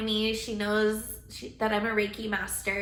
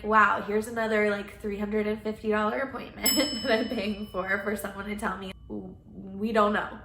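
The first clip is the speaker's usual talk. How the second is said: exasperated. Retold or imitated. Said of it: "Completely lost it".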